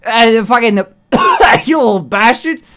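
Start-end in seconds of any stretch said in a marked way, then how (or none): 1.6-2.6 shout. Real, not acted. Ranting at chat.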